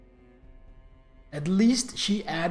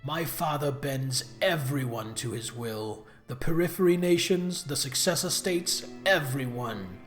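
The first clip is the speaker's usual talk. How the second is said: mustache twirling villain; 4 semitones lower than usual. Acted. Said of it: "You talk like a cartoon villain".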